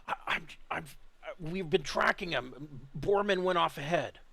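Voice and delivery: high, halting character voice; Jackson. Acted. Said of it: "and Jackson replies back".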